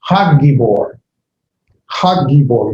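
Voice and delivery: Hagibor with the g held long; doubled g. Shown as a demonstration. Teacher showing the doubled g to students. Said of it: "that G sound twice".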